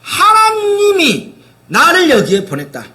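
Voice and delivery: high, slow, voice catching with tears; choked-up slow declaration; tearful testimony. Retold or imitated. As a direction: say it as if close to weeping. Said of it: "그가 말한 것은 뭐예요".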